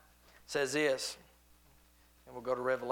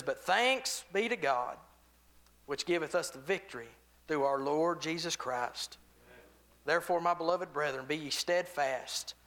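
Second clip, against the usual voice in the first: scripture reading. Acted. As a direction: lift the words from the page. Reads scripture aloud.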